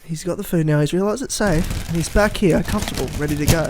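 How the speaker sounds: lightly done nature documentary narrator; a hint of Attenborough wildlife narration; David Attenborough impression. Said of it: "full David Attenborough".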